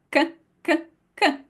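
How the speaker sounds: dry k, k with no air; unaspirated k; Italian k. Shown as a demonstration. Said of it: "Can you feel the difference".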